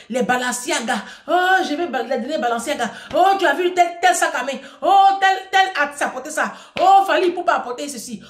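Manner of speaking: mocking imitation of a girlfriend begging for designer bags; mock materialistic girlfriend.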